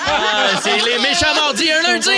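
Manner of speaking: loud, high, excited call; excited announcer. Acted. Announcing a jingle loudly.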